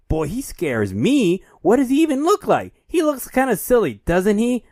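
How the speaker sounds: high, playful host voice; mock interviewer voice. Kip teasing a kid on live TV, high playful host voice. Reading Kip's lines.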